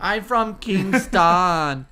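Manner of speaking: very slow put-on Jamaican drawl; mock Jamaican accent. The speaker echoes the Jamaican line. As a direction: drag each word in a Jamaican accent. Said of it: "Say this".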